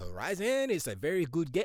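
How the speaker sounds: fake French accent, out of nowhere. Imitating Herman answering an investor about game sales, in an accidental French accent. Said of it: "I don't know why he's French all of a sudden".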